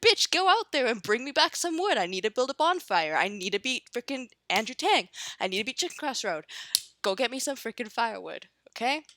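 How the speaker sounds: a mock furious rant, loud and high; mock angry orders. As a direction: order your partner about in a mock rage. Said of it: "Why are you so angry?".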